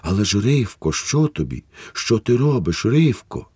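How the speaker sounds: babbling. Acted. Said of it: "лепетів лишень раз за разом".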